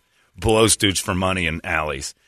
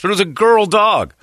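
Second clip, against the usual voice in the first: emphatic; 11 semitones higher, 5 dB louder than usual. Real, not acted. Emphatic punchline.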